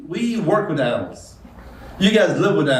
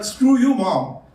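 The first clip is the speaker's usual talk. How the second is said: mock yell, jumping higher at the start; kid yelling; 6 semitones higher, much slower than usual. Little kid to his mom at Target, mock yelling. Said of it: "was yelling at his mom".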